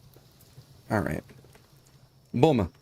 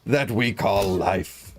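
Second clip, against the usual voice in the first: hammed-up old-timey adventurer; 2 semitones higher, slower than usual. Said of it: "And you'd say".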